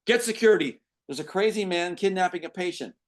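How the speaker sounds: high, loud alarmed yell; yelling for security. Acted. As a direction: shout down the hall for help. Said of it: "as the nurse yells".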